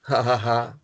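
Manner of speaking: short dry "ha ha ha"; a brief, half-hearted mock laugh. Teacher reading "work in pairs" to students, mock laughing.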